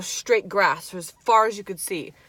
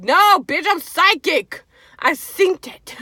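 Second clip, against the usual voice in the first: sassy comeback; 9 semitones higher, 7 dB louder, slower than usual. Retold or imitated. Retorting to mom.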